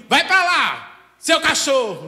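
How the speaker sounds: loud, slow, high angry yell; arguing shout. Retold or imitated. Couple quarreling, yelling an insult, mock angry shout. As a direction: bark it at your partner in a fight. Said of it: "quando tá discutindo".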